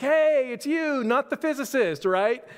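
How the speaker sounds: playful mock recognition; teasing greeting. Couple on the beach teasing the pastor, high excited call.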